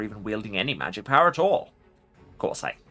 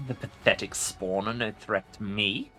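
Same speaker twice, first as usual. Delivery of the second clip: arrogant chuckle; 3 dB quieter than usual. Acted. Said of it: "the Lich chuckles arrogantly".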